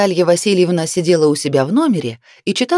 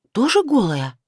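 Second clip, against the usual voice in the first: curious; 6 semitones higher than usual. A narrator's reading. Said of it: "заинтересовалась Наталья Васильевна".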